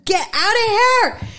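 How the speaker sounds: loud, high, stretched-out yell; acted-out scream with a laugh in it; retold scream. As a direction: bellow the order slowly and high. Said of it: "Screaming at him".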